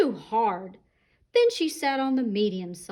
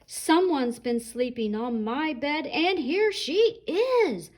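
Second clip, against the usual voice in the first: rising to a higher, slow little wail; small wailing Baby Rhino; 5 semitones higher than usual. Acted. Baby Rhino finding Goldilocks in his bed, higher slow wail. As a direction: stretch out the end like a tiny excited rhino. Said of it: "wailed Baby Rhino in his small little voice".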